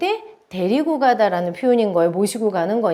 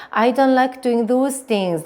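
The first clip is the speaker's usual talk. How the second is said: "don't like doing those things" with emphatic beats; slow, emphatic "don't like doing those things"; stressed key words; much slower than usual. Shown as a demonstration. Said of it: "강세들 한번 다시 한번 넣어볼게요".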